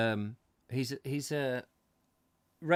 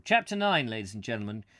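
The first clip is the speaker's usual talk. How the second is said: chapter announcement; 6 dB louder, faster than usual. Real, not acted. Announces the next chapter to audience.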